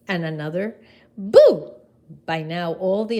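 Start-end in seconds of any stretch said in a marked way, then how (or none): 1.2-1.7 boo. Acted. Scaring a leaf.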